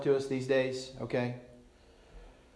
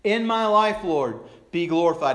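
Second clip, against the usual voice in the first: raised, loud declaration; earnest worship line; 4 dB louder than usual. Acted. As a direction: offer it up like a worship lyric. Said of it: "And we sing that".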